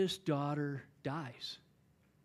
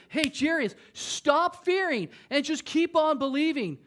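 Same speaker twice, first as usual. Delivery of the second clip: fervent exhortation; 7 semitones higher, 3 dB louder than usual. Acted. Jesus urges Jairus, preacher peaks.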